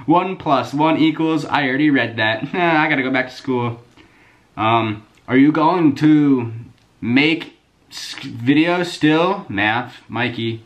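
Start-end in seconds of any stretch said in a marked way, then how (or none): 0.1-1.5 high, loud, slow mock-kid reading; mocking a kid's typos. Reading fans' misspelled questions aloud, mocking kid voice. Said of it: "exactly how they're written". 5.3-9.5 high, loud, slow mock-kid reading; mocking a kid's typos. Reading fans' misspelled questions aloud, mocking kid voice. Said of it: "exactly how they're written".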